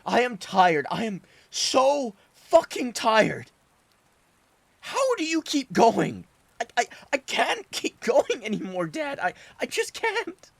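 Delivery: tears pouring out through the yelling; sobbing outburst. Acted. Son screaming his guilt at his father, sobbing. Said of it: "sobbing the little of what remained".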